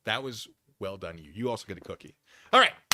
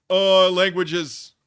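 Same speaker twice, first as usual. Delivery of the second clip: slow, loud, dopey drawl, pitched up high; silly mocking voice; 7 semitones higher, 12 dB louder, much slower than usual. Mocking the caller's answer in a slow, loud, dopey voice. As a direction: play him as a slow-witted fool, dragging every word. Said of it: "I'm back to doing silly voices".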